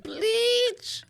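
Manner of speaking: "Bleach" very high and drawn out; mock exclaimed bleach. Friend repeating his "Bleach" imitation, high-pitched mock cry. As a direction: squeal a long "Bleach" at normal volume. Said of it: "he said it with a little, uh-uh".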